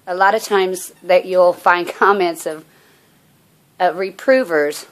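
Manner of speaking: breathless after running down the street; winded, catching breath between phrases. Real, not acted. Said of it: "forgive me, I'm out of breath".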